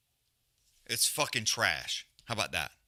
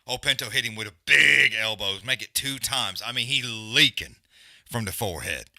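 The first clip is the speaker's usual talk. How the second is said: louder, hyped reaction; excited; 6 dB louder than usual. Real, not acted. Streamer hyping the viewers over Pinto's elbow, loud and excited. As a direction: call out the big elbow with excitement.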